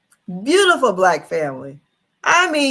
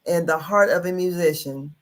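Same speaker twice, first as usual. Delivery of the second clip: news read; 2 semitones lower than usual. Acted. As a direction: read the report aloud like a newscaster. Reads news article on stream.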